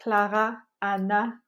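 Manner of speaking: "Clara" and "Anna" in two equal beats; French-style unstressed "Clara" and "Anna"; even syllable weight. Shown as a demonstration. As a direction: say "Clara" and "Anna" evenly, rising slightly at the end. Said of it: "In European French".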